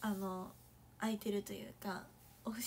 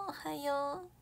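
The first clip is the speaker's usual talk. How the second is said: ordinary talk, nothing marked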